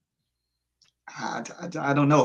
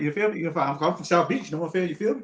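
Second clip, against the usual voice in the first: imitating Will; 4 semitones higher, much faster than usual. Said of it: "Will was that guy".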